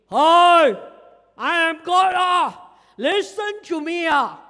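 loud, dramatic mock voice of God; hammed-up thundering God; booming mock God. Preacher mocking a dramatic God, booming loud. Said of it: "God will never speak like this".

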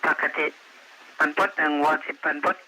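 tinny radio voice reporting in; distant voice through a police radio; over walkie talkie. Real, not acted.

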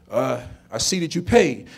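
low, soft hesitant son; subdued admission. Retold or imitated. Son looking at child support checks, subdued. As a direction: concede it quietly and low.

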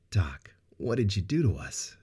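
in awe. Acted. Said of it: "Sarah asked in awe".

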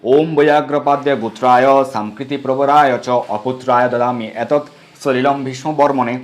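slow, measured Sanskrit recitation; mantra recitation. Acted. Priest giving the water-offering mantra for Bhishma, slow recitation. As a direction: draw out the syllables of a ritual mantra.

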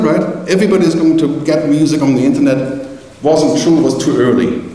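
normal talking voice

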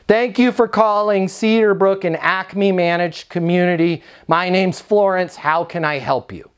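scripted salesy phone greeting. Shown as a demonstration. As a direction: recite a mildly salesy receptionist's greeting, trailing down at the end. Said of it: "It sounds salesy".

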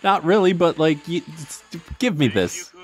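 high, pleading, exasperated whine; shaking with anger. Pretend. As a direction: beg the game, half-joking. Pleading with the game.

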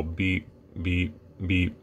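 beeping like a meter that's off; slow imitated beeping. Shown as a demonstration. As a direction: mimic a slow radio beep. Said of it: "super slow".

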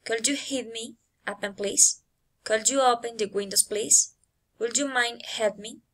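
requests lifting upward on "please" and "help me"; rising intonation. Shown as a demonstration. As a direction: let the tune climb at "please" and "help me". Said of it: "rising intonation".

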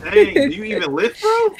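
high, loud mock gym bro taunt; pump-up bro jeer. Gym bro meme repeated.

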